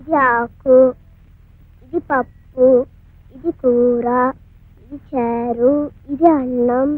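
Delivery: gentle soothing. Acted. Sister serves a pretend meal.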